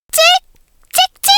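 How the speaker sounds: put-on loud frantic baby-bird cries for help; desperate chirps. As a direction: squeak out for your life. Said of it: "살려달라고 연거푸 소리를 질렀습니다".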